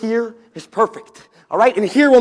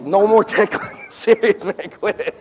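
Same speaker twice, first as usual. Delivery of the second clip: being tickled. Acted. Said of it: "Does somebody need a tickle".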